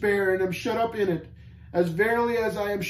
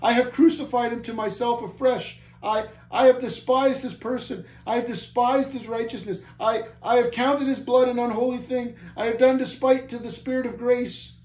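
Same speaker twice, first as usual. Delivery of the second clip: high, impassioned outpouring of guilt; deepest anguish; 8 semitones higher, 3 dB louder than usual. A narrator's reading. Caged man lists his sins to Christian, in anguish. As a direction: cry out each sin in torment. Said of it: "cried he in deepest anguish".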